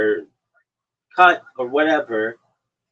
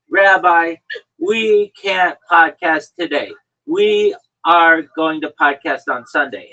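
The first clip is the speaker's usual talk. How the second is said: louder, slow, bossy mock demand; hammed-up cohost laying down the law; 3 semitones higher, 7 dB louder, slower than usual. Host imitating his cohost bossily cancelling the podcast, loud mock demand. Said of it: "and you say".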